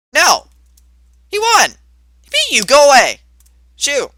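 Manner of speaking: high, loud, exasperated yelling; frantic shooing. Acted. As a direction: yell to chase off a pesky ghost. Chases the returning ghost away.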